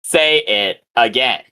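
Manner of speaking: slow, halting, word-by-word rebuke; lightly voiced gruff woman, spacing out each phrase; gruff woman's voice. Stone's reply scolding Zargan, slow and lightly gruff. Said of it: "very gruff woman's voice".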